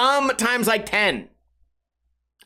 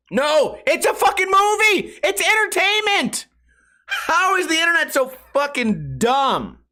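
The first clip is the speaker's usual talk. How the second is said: exasperated; 6 semitones higher than usual. Real, not acted. Exasperated reply to commenters.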